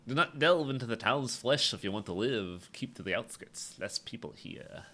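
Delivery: nasal weirdo drifting toward Sean Connery; lightly nasal creep, sliding into Connery; nasally weirdo voice. Acted. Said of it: "trying to go for, like, a nasally weirdo voice".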